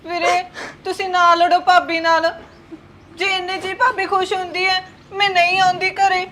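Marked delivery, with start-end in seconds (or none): 0.0-4.8 tearful plea. Acted. Sister begs brother, crying.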